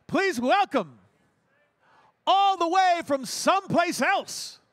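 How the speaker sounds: big drawn-out showman intro, slow and grand; emcee announcement. Acted. Emcee hyping the comedians to the crowd, grand and drawn out. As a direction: stretch it out like a game show host.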